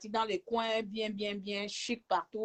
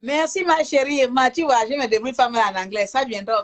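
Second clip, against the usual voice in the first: loud cheer; 2 semitones higher, 13 dB louder than usual. Real, not acted. Thanking the waiter and boasting about her English, loud. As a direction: call out thanks, beaming.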